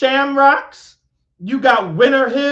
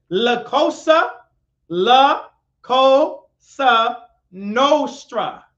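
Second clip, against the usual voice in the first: "La Cosa Nostra" stretched out syllable by syllable; said slowly; much slower than usual. Shown as a demonstration. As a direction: spell it out slowly so they can Google it. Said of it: "I'm gonna say it slowly".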